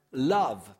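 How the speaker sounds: loud, punchy single word; proclaiming love; emphatic answer. Real, not acted. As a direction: hit it like the answer. Preacher answering his own question.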